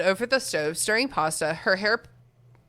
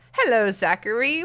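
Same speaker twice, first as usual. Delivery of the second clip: put-on old lady voice; 4 dB louder than usual. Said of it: "I did, like, an old lady voice".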